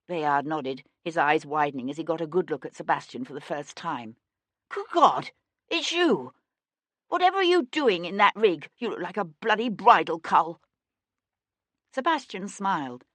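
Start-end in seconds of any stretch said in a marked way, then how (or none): 4.7-10.6 high startled exclamation; shocked surprise. Acted. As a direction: blurt it out, astonished. Bayard recognizing uncle.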